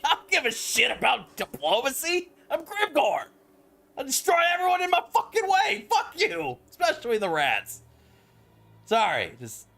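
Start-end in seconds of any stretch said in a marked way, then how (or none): 0.0-7.8 much higher, louder hammed-up orc warlord snarl, laughing through it; brutish Grimgore voice. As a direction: play the savage orc boss who cares nothing for treaties. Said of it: "I'm like".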